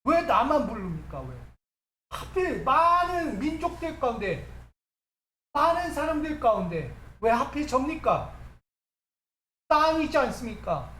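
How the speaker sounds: protesting questions, pitch rising high in places; resentful complaint. Acted. Preacher as Moses asking God why only him, resentful. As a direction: demand to know why, with some reproach. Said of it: "원망하는 거예요".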